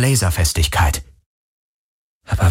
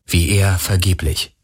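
plain reading voice

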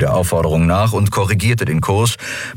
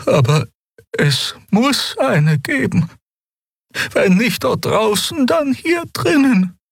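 high, slow, earnest heroine voice; high pleading young woman; Xia, urgent young voice; slower than usual. A narrator's reading. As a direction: press them for the truth, voice lifted high. Xia insists, trembling hands.

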